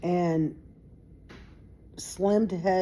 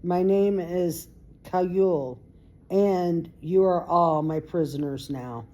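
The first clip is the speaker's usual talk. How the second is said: very calm. Acted. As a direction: calmly tell the children they are captives. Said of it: "very calmly".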